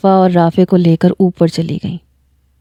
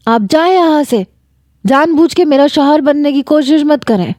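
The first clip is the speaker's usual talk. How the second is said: angry retort; 6 semitones higher than usual. Acted. Angry wife tells him leave.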